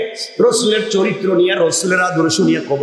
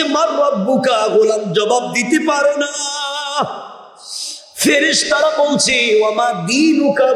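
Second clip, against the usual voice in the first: melodic preaching; 10 semitones higher than usual. Acted. Preacher warns of the questioning in the grave, high melodic chant. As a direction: preach it high and sustained, easing down at phrase ends.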